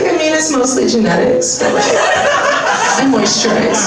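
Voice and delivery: slow, smug mock-humble; smug modesty. Her answer to fans of her youth, smug. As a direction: brag while pretending to shrug. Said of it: "I was like".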